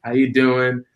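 light playful imitation of calling dad; mock casual phone call. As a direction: drop it on him casually. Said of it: "I was like".

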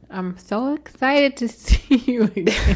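slow, loud, bright fake excitement; put-on excited voice. Shown as a demonstration. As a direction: ham up the excitement a little. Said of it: "Use your normal voice".

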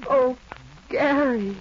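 overwhelmed. Acted. Overwhelmed by his proposal.

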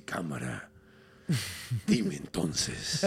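very low, slow bass voice; the small Muki pressing the miner for an answer in a booming voice; booming deep voice. Retold or imitated. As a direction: drag out dime like a big bass voice. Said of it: "O sea, hablaba así y le dice".

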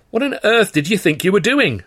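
loud, high-pitched outraged shout. A narrator's reading. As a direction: shout it in astonished disbelief. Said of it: "I shouted".

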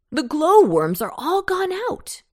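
high, loud witch exclamation; witch crying out. A narrator's reading. Witch alarmed that glowworms are out, crying out. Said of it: "cried a witch".

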